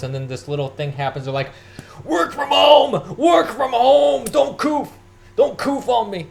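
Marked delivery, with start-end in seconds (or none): 2.0-6.3 high frantic yell of panic; hammed-up panicked screaming; mock panicked shout. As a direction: shriek it like a hysterical crowd. Mocking panicked people shouting.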